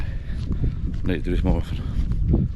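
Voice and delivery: slow, breathy, winded after the walk; puffing between words from walking; out of breath. Real, not acted. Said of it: "I'm out of breath".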